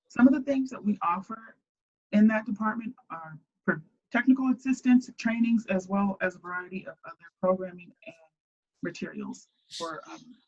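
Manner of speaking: muffled, as if through a hand; speaking with hand over mouth. Real, not acted. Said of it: "You are very muffled".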